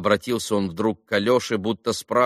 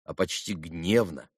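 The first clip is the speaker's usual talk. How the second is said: ordinary delivery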